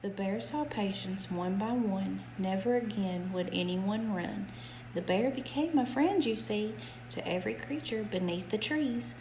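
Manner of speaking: gentle sing-song bedtime reading; reading to a child. A narrator's reading. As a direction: read it like a rhyming bedtime book. Reads a rhyming picture book aloud.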